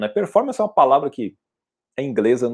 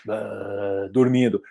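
mock dozing off; 5 semitones lower, 5 dB quieter, much slower than usual. Bored audience falling asleep.

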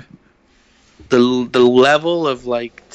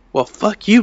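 higher, louder mock outburst; imitating angry guy; 7 semitones higher, 4 dB louder than usual. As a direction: snap back like an offended skater. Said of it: "he was pissed".

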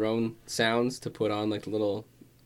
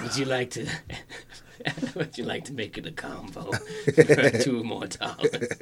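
upselling cashier. Pretend. Mock Subway cashier upsell.

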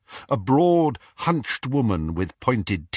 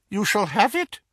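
high, cold, mocking dark lord; Voldemort voice; 12 semitones higher than usual. A narrator's reading.

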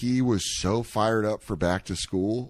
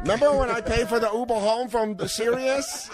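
very high, fussy scolding; scolding chef voice; 12 semitones higher than usual. Retold or imitated. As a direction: nag him in a squeaky character voice. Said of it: "Through your character voice".

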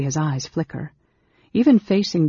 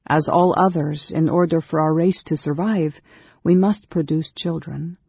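slightly raised, measured female character voice; earnest, lightly raised storytelling voice; lightly voiced Amberol, earnest; 3 semitones higher than usual. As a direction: explain your people's history earnestly, breaking off at the end. Narrator voices Amberol explaining her race.

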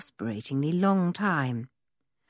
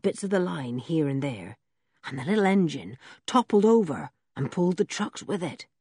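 put-on rough old blacksmith. Blacksmith Ben's voice.

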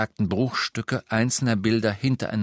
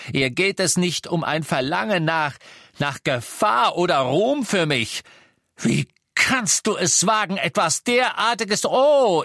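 high, loud mocking scorn; taunting Harry; 6 semitones higher, 4 dB louder than usual. A narrator's reading. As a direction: sneer at him. (Harry verhöhnt Lupin wütend)

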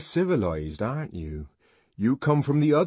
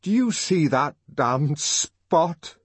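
slow, louder, trembling question; trembling with emotion; 7 semitones higher, 7 dB louder, slower than usual. A narrator's reading. Young man pointing at the bloodstains, slow trembling voice. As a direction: let the voice shake with feeling. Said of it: "in a voice that trembled with emotion".

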